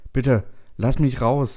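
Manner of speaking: high, slow, tearful begging; whiny plea. A narrator's reading. Trapped settler begs computer for release, whiny. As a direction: plead as if near tears. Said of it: "sagst du nun in weinerlichem Ton".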